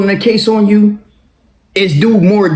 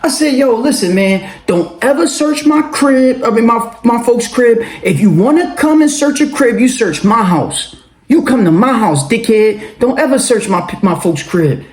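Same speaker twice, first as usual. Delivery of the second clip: higher, laughing, shouting insults; angry phone rant; 4 semitones higher than usual. Retold or imitated. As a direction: tell off the cop with a laugh and a shout. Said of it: "the exact words I said and the exact way I said it".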